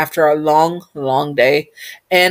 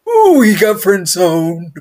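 teasing aside; 4 dB louder, slower than usual. Real, not acted. Aside teasing about friend zone.

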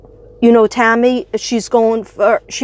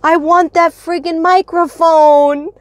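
wanting it badly; 5 semitones higher, slower than usual. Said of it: "I was like".

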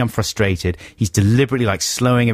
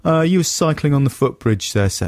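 officious cop; 5 semitones higher than usual. Retold or imitated. Police officer voiced in story.

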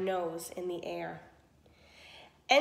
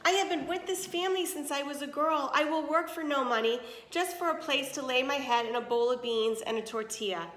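pleading; 4 semitones higher than usual. Acted. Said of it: "Esperanza pleaded".

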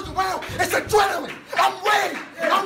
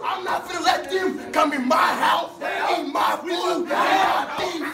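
shouting. Real, not acted. Player rallying teammates.

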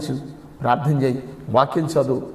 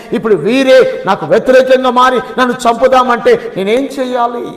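rising, pleading lament that builds higher and louder; anguished lament; 6 semitones higher, 4 dB louder than usual. Acted. Preacher voicing David's anguish at his friends, building lament. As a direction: cry out like a betrayed man.

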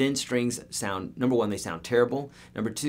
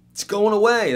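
exaggerated exclaim; 12 semitones higher, 10 dB louder than usual. Mocking DVDs as dying technology.

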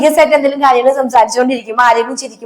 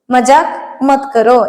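"മജാക്ക് മത് കറോ" said again, slowly; slow it down the second time for learners; teacher repeating the phrase slowly; slower than usual. Shown as a demonstration. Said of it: "അപ്പൊ നമുക്കത് ഇഷ്ടപ്പെടില്ല".

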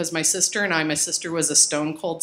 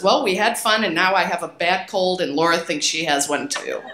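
put-on reading teen journal. Reads her teenage journal aloud.

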